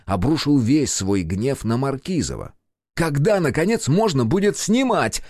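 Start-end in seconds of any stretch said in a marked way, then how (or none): 3.0-5.2 yelled. A narrator's reading. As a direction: bellow it at the whole crew. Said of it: "заорал он".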